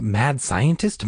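slow, questioning echo; drawn-out wondering, ending upward; repeating thought. A narrator's reading. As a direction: let it rise into a doubt. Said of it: "The words kept repeating in her mind".

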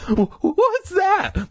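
very high, scared question; scared and startled; frightened stammer. A narrator's reading. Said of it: "Mike stammered".

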